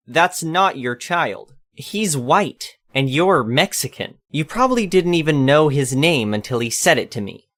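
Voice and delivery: lightly voiced suspicious old lady; accusing old lady.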